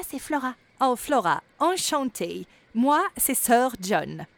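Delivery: voix de vieux gnome plus haute, plus forte et lente; un gnome vaniteux qui se vante de ses ancêtres; gnome pompeux. Acted. (le gnome se présente à Flora, voix pompeuse et théâtrale)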